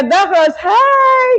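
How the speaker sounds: high-pitched smiling "hi"; smiley greeting. Retold or imitated. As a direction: greet the doctors through a put-on smile. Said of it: "Yung parang ngingiti ka".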